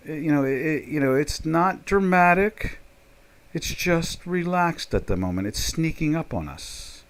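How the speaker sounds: calm them down gently; lightly soft and conciliatory. Shown as a demonstration. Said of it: "you gotta be conciliatory, soft".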